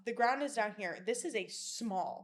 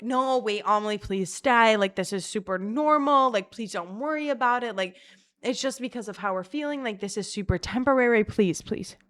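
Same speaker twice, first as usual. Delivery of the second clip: mild retold begging, a bit louder; urgent pleading; 6 dB louder than usual. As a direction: plead urgently with a friend not to go. Pleading with friend to stay.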